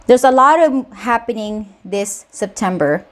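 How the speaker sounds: out of breath from the stairs; breathless, catching breath between words; panting. Real, not acted. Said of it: "I'm panting 'cause I just run up the stairs".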